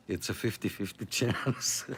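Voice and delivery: chuckling through the words; amused, half laughing. Real, not acted. Joking about broken gear.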